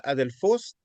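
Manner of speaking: "adelfos" stressed on the last syllable; final-syllable stress. Shown as a demonstration. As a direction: lean on the final "fos" of "adelfos". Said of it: "termina con un acento".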